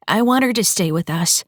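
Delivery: lightly voiced pleading girl. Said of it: "Amy pleaded".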